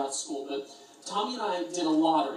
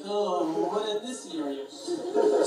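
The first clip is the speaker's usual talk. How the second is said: smitten friend; 2 semitones higher, 4 dB louder than usual. Retold or imitated. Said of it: "huge green eyes, like".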